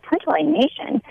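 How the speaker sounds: high, disbelieving echo of the words; incredulous repeat. Retold or imitated. Mother recounting her shock at the lawyer's claim, disbelieving. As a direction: throw the phrase back in shock.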